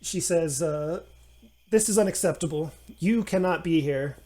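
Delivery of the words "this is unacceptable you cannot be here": fast, firm scolding; stern refusal. Acted. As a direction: shut him out firmly. Nanny forbids gnome.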